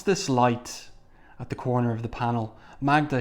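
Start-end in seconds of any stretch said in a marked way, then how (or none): 2.8-3.2 crying out. Acted. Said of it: "he cries out".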